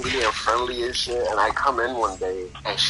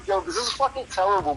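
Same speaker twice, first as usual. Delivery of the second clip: laughing sympathy; 10 semitones higher than usual. Retold or imitated. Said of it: "laughing in her face".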